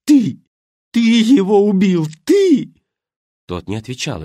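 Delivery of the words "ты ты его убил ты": very high, very loud shrieks; screaming accusation. Acted. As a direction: shriek it while shaking him. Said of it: "крича".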